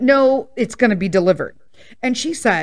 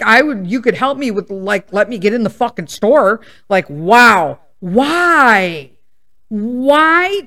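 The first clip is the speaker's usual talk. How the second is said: exasperated; 4 dB louder, slower than usual. Retold or imitated. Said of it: "And I'm like".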